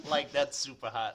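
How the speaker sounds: light mock Valley Girl; a touch of Valley Girl gushing; Valley Girl accent. Friend joining the California parody, mild Valley Girl. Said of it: "The Valley Girl".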